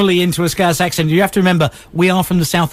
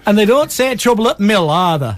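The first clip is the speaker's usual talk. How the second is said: put-on Yorkshire accent. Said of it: "I can do a Yorkshire accent".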